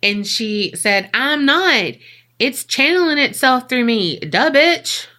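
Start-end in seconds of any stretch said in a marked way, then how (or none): 1.1-5.1 sassy retort. Retold or imitated. Sassy retort of possessed Cindy.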